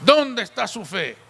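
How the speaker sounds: mild mock rebuke, voicing the Lord; retold firm reproach. Preacher voicing the Lord challenging his disciples, firm reproach. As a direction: demand it as an imitated reproach. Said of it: "más fuerte fue el del Señor".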